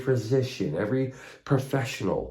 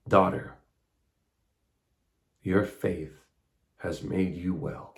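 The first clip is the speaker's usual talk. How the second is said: soft and slow, fading quieter; tender; 4 dB quieter, slower than usual. Acted. Jesus telling the healed woman, softly and tenderly. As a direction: say it gently to her.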